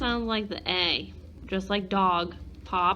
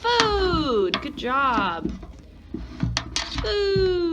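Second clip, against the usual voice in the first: excited praise; 8 semitones higher, much slower than usual. Real, not acted. Teacher praising child's answer.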